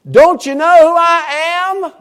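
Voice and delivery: loud, high, demanding; God's voice demanding attention; booming divine rebuke. Retold or imitated. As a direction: shout it down like a commanding God. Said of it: "In modern day vernacular".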